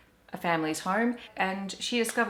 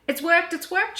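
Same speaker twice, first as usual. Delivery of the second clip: high, loud delighted exclaim; excited cry; 11 semitones higher, 6 dB louder, slower than usual. Acted. Grandma Poss seeing Hush fully visible, crying out in delight. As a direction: cry out in triumph. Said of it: "she cried".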